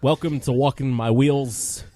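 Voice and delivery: slow show host opening; podcast intro. Acted. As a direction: welcome them like a host. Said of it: "Can you do the opening?".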